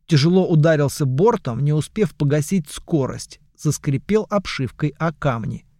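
plain reading voice

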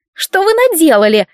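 high, accusing, stress on вы; creaky complaint. Acted. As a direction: grate out «вы» as the blame. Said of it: "проскрипела заказчица".

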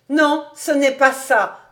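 animated, emphatic denial; singular vivacity. A narrator's reading. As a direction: cut in with a lively objection. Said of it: "avec une vivacité singulière".

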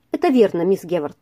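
usual speaking voice

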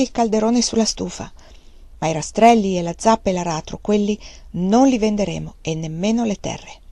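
calm, matter-of-fact, unshaken; flat and ordinary. Acted. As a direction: say it like everyday business. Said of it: "con voce piatta e ordinaria". (voce piatta e tranquilla)

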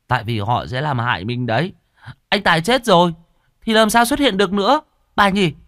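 put-on high, loud boy's voice; child chiming in. A narrator's reading. Boy cuts in to explain ghosts to grandma, eager interjection. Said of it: "Thằng Nghĩa chen lời".

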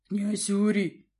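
slow, solemn announcement of the prince; a guard bear formally presents the ruler; announcing herald bear. A narrator's reading. Guard bear formally announcing the prince. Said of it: "сообщил черношёрстный медведь".

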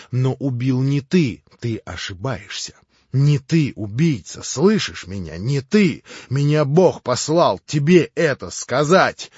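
громче и выше, как в порыве; говори будто не своей волей; как бы вне себя. A narrator's reading. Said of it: "как бы вне себя". (вдохновенный, громкий порыв)

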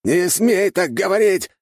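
put-on old archmage screams at his grandson's killer; furious shout. A narrator's reading. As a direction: scream it with your last strength. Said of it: "закричал Артега".

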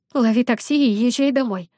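timid, hoarse from crying. Acted. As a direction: offer it shyly through a hoarse throat. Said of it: "несмело охрипшим голосом предлагаю я".

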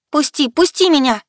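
high, loud struggling cry; desperate scream. A narrator's reading. Heroine struggling in the dark threads, screaming to be let go. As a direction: yell while fighting to break free. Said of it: "закричала я, вырываясь".

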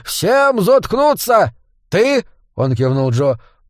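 high, forceful bark; commanding yell, pitched well up; barked order. A narrator's reading. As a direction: bark it out to shut everyone up. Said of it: "Дворф и рявкнул".

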